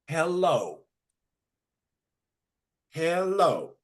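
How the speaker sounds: high, preachy teacher voice drilling pupils; boarding school teacher. Acted. Teacher drilling native children, high and preachy. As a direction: lecture the class like a zealous teacher. Playwright reads teacher monologue.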